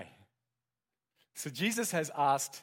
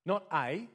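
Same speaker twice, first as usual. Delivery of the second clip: "a" said as a full, louder word; stressed "a"; 4 semitones higher, 5 dB louder than usual. Shown as a demonstration. Preacher contrasts with Peter's answer, "a" loud and stressed. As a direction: punch the "a" in "Not a".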